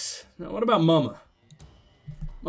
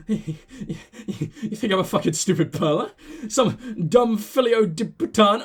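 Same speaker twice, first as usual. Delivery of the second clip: a slow, hammed-up Spanish accent; wacky Spanish accent; slower than usual. Dealer sneers at the player in a hammed-up Spanish accent. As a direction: drag the words out in a mock Spanish accent. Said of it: "What's with the wacky accent".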